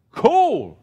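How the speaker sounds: high, loud, drawn-out American "Cool"; American accent. Acted. Reading out a church's question, in an American accent. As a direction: exclaim it in a put-on American accent. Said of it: "let me do my American accent".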